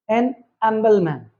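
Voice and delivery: एन अम्बलमैन, humble said without H; old silent-H pronunciation. Shown as a demonstration. Teacher giving the old example: एन अम्बलमैन with silent H. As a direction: start अम्बलमैन on the vowel. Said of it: "इसके साथ लगता था".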